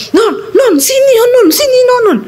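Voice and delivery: high, urgent calling imitated; husband's frantic yell. Excited husband summoning his wife to the laptop, high frantic yell. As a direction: summon her as if possessed. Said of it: "dia teriak, saudara, kayak orang kesetanan".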